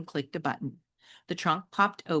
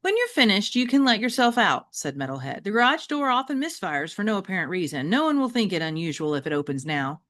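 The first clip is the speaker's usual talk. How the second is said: lightly voiced calm robot dog; a hint of a polite machine giving a gift; Metalhead's voice. Robot dog Metalhead telling the pets to leave, lightly voiced.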